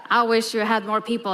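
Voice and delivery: calling out. Real, not acted. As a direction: project over the crowd, real. Speaker calls out to the crowd.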